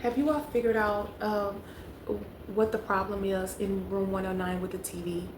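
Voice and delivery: measured, restrained polite request; politely holding back frustration. Retold or imitated. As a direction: retell a careful, courteous question to a desk clerk. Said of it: "I was polite".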